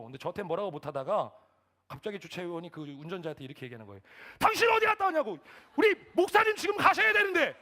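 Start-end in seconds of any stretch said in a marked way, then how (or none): 4.4-7.6 yelling high and very loud; angry attendant. Retold or imitated. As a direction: berate the driver on someone's behalf at full volume. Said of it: "주차위원도 화나가 났겠죠". (화난 주차요원이 버럭 고함치는 말투)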